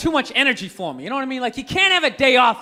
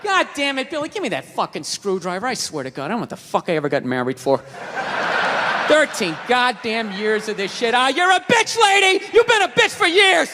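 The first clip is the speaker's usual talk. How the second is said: dad ranting at mom; 2 semitones lower than usual. Retold or imitated. Dad yelling at mom, retold bit.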